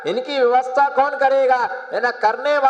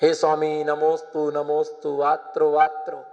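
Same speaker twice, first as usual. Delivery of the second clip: ritual invitation; 5 semitones lower than usual. Acted. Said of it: "आज इनका पड़गाहन करके आहार कराना".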